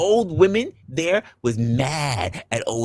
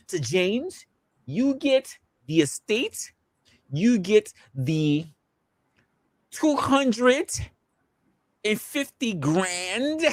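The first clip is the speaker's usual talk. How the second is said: mock announcement; 6 semitones higher, much slower than usual. Mock will reading to James.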